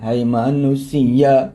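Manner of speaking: a hint of a singer's drawl; lightly imitating the dangdut singer's slow delivery; impression of a dangdut singer. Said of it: "orang sering denger Oma Irama".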